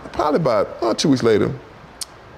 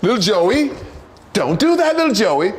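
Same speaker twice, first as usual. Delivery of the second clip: high, louder, prissy gentle scolding; 12 semitones higher, 3 dB louder than usual. Retold or imitated. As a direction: coo at little Joey like a timid parent. Mocking white parents' soft scolding.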